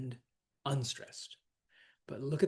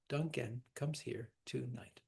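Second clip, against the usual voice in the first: "Duncan comes here to knight" in three measured two-beat feet, softer; group it softly as "Duncan / comes here / to knight"; scanning the feet; 7 dB quieter than usual. Shown as a demonstration. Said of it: "he's got the first three feet".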